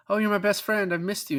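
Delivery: high gushing friend voice. Retold or imitated. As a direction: pour it on, overly fond. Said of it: "I love the way that Colin Farrell's like".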